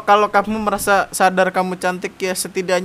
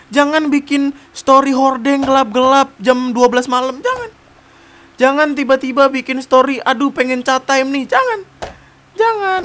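teguran bernada tinggi; 8 semitones higher, 5 dB louder than usual. Real, not acted. Menegur cewek dengan nada tinggi.

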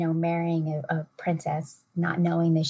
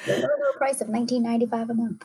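giggling as a pretend infomercial host, a bit higher; laughing mock ad pitch; 6 semitones higher, faster than usual. Co-host jokes about selling their gift box, laughing through it. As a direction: chuckle through a cheesy sales line.

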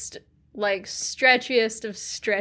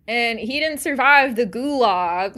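mock indignant rant; 3 semitones higher, 6 dB louder than usual. Ranting at Brennan in imagination.

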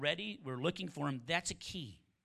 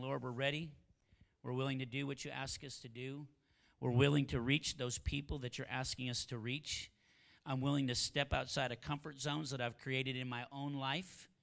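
prayer. Shown as a demonstration. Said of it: "I'll have people just repeat".

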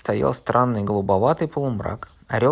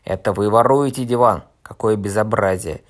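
loud, outraged scolding; indignant shout; 6 dB louder than usual. Acted. Fat man scolding Korneev for stealing the sofa, indignant shout.

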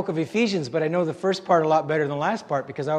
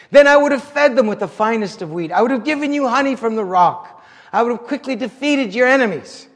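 raised, earnest prophetic declaration; prophet crying out; 4 semitones higher than usual. Acted. Prophet voices God's lost promise to Israel, crying out. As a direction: declare it as a prophet, a touch impassioned. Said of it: "the prophet cried out".

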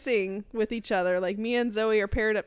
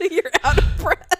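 loud, higher, amused burst; real laughing; 6 semitones higher, 9 dB louder than usual. Real, not acted. Teasing a partner after the spider hunt, laughing. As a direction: laugh as you point it out.

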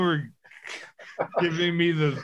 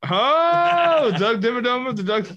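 excited recognition; 7 semitones higher than usual. Real, not acted.

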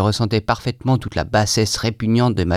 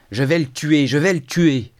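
higher, squeaky repeated threat; squealing; 6 semitones higher than usual. A narrator's reading. Narrator squeals his threat while pounding the table. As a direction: squeal it in a daze. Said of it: "couinai-je en cognant sur la table".

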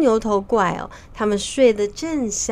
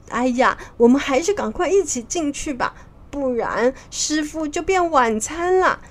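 mildly worried, slightly raised voice; anxious urging; 4 semitones higher than usual. Acted. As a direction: urge them on with a touch of panic. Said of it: "很着急地说". (略显着急地催促)

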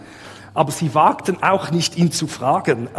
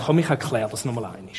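lower, quick and gently patient; understated, kindly invitation in a lower voice; gentle reassurance; 5 semitones lower, 4 dB quieter, faster than usual. Acted. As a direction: offer help kindly, as an imagined patient teacher. Jesus patiently offers to explain again.

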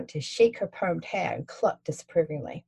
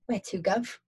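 Cockney cabbie; 2 semitones higher, 3 dB quieter than usual. Acted. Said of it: "a cabbie with a Cockney accent".

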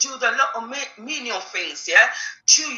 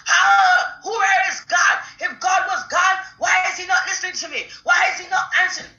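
mock believer going from tired grumbling to a pitched-up wail; frustrated complaint building to a cry; 3 semitones higher than usual. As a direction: whine "I'm tired", then cry out high at God. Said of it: "start confessing with their mouth".

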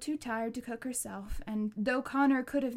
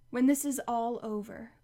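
a touch of fury, held back; furious; 4 dB louder than usual. Acted. Connor throwing her words back, furious. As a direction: bite the words out in anger. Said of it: "fury in his voice".

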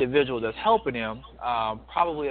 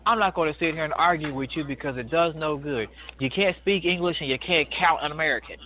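put-on indignant old man; 4 semitones higher than usual. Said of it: "He said".

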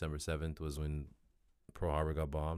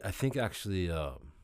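talking through a yawn; stretched yawny words. Real, not acted. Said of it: "pardon my yawning".

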